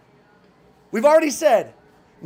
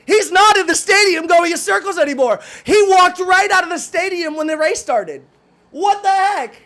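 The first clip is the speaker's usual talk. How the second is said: imitating a jealous peer left behind, louder; mock envious rival; 4 semitones higher, 5 dB louder than usual. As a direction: play the stuck competitor, amazed and annoyed. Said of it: "be like".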